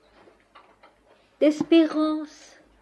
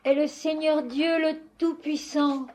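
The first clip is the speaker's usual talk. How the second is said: measured, solemn recitation; liturgical prayer; 4 dB quieter than usual. Acted. Worshipper addressing Notre Père qui es aux cieux, solemn prayer. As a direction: pray in even phrases with long pauses.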